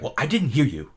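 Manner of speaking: lightly mocked snippy comeback; imitating an irritated assistant; mild testy retort. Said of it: "she's, like, snipping".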